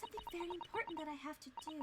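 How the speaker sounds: assistant's wondering echo. Acted. Assistant echoes the quoted words.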